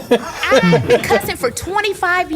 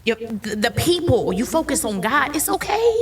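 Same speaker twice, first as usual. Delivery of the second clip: reassuring; 3 semitones higher than usual. Acted. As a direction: reassure each listener, lingering on every "okay". Comforting someone who is struggling.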